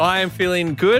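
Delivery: overly loud. Answering the question of how he's feeling, too loud. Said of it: "Too loud".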